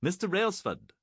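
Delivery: high, loud commanding bellow. A narrator's reading. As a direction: bellow the officer's name. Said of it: "Treghughes bellowed".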